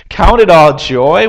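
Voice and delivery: incredulous echo. Acted. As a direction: repeat it as a doubting question. Incredulously questions the verse just quoted.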